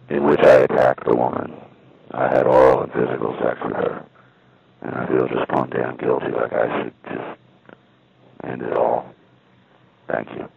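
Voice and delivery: lightly voiced Texas caller; Texas accent. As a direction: read it with a hint of Texas accent. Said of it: "like, a sort of a Texas accent".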